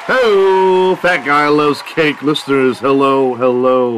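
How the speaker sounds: loud, high hype-man hello; excited greeting. Real, not acted. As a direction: belt out the welcome like a radio opener. Host opening greeting shouted.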